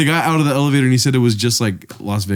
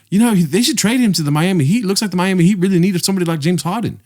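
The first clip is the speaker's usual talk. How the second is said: higher-pitched mock Australian accent; 5 semitones higher than usual. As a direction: imitate an Australian quoting his wife. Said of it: "I don't know how to do an Australian accent".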